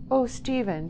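high-pitched plea; pleading. A narrator's reading. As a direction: beg him in a high voice. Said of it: "she pleaded".

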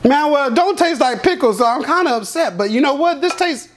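chewing between words; talking while chewing. Real, not acted. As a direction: mouth partly full of cereal. Seen 0: Ate a spoonful at -12 s; jaw still working while talking.

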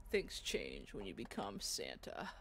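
slow mock whisper; hushed, slow parody whisper. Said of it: "This is literally the Santa Claus".

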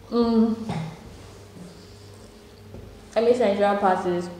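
talking while chewing food; muffled speech around food; mouth full, chewing. Real, not acted. Seen 1: Bites pancake at -2; cheeks full, chewing through first seconds.

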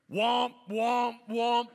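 loud high mock submarine alarm womp; alarm imitation. Pastor imitating the phone alarm in church, loud and high. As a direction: belt out the alarm noise. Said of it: "you start to hear".

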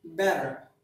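better said as bedder with a quick tap; American flap T. Shown as a demonstration. Teacher showing students how Americans say better. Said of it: "They pronounce it".

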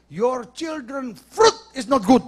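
loud, slow mock tirade; hammed-up scolding. Official's wife berating the supervisor about staff, mock fury. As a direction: lay into them word by word, playfully overdone. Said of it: "langsung dia semprot".

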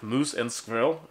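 slow, hammy Russian accent. Shown as a demonstration. Showing off his best attempt, slow Russian accent. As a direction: draw it out in a mock Russian accent. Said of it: "That is the best Russian accent I have".

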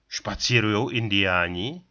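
Špacírujou stressed, rising question; emphatic repeat. A narrator's reading. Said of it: "opakoval důrazně Dlouhán". (důrazně opakované Špacírujou s vzestupem)

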